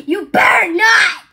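loud shouted repeat of the threat; shouted warning. Retold or imitated. Son warning his parent, now shouting it. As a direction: yell the warning out. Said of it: "he will say".

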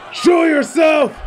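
shouted challenge. Acted. Villain calls out to hidden foe.

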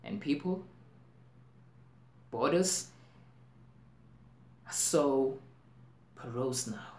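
broken phrases with very long pauses; halting, weighty stage delivery; dramatic monologue. Acted. Actor warning that borders are porous, dramatic monologue.

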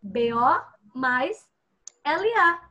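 "B O mais L A" drawn out, syllable by syllable; slow syllable build. Shown as a demonstration. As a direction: teach it slowly, joining the syllables. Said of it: "duas sílabas". (juntando "B O mais L A" devagar)

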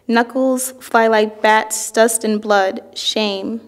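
slow, deliberate verse reading; poem reading. Acted. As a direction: give each image its own slow phrase. Reads another poet's poem aloud.

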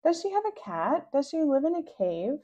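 eager questions. Acted. Rascal eagerly quizzing siblings.

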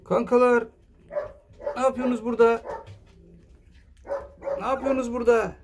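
high, cooing voice for the pups; high voice asking the pups what they're up to; high pet talk. Real, not acted. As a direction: coo at the puppies in a high voice. Talking to the puppies.

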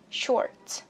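"Short" with tongue curled for R and T popped; careful model "Short", R and T both sounded; curled R, released T. Shown as a demonstration. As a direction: curl the R in "Short", then let the T out. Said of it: "uốn lưỡi chữ R".

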